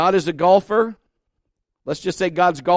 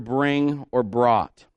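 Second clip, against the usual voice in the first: "bring" and "brought" each set apart and stressed; emphasis on BRING, BROUGHT; 4 semitones lower, much slower than usual. Shown as a demonstration. Preacher teaching on tithing, stressing "bring" and "brought". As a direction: lean on "bring", then land firmly on "brought". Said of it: "emphasizing the word".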